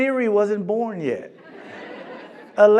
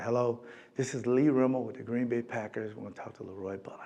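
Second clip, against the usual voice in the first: caller on the phone; 7 semitones lower, 12 dB quieter, faster than usual. Retold or imitated. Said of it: "I said".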